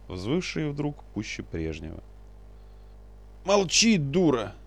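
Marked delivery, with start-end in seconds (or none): 3.4-4.5 high, loud angry snap at his wife; snapped in anger. A narrator's reading. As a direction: shut her up in a temper. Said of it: "в сердцах бросил".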